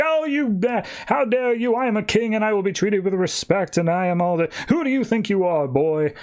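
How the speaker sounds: high, outraged pompous king; hammed-up royal indignation, pitched well up; indignant king. King rebukes the boy for disrespect, indignant. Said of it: "the king's like".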